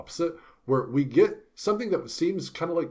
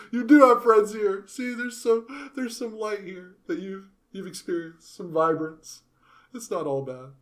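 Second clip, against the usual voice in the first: much higher, louder, earnest encouraging voice; Zenoba comforting; 9 semitones higher, 6 dB louder than usual. Retold or imitated. Zenoba telling Nanahoshi she has friends, high and earnest. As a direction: cheer up a sad friend, pitched way up. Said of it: "I say that as Zenoba".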